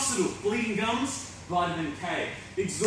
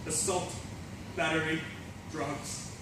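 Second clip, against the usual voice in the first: low, soft, halting aftermath; subdued confession; 5 semitones lower, 8 dB quieter than usual. Acted. Fallen rock star admits the damage, low and subdued. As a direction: confess it quietly, with long pauses.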